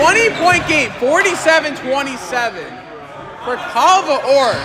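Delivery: quick, lively sports commentary calling each play. Acted. Commentator calling the game for viewers, live play-by-play. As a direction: call the game like a courtside announcer.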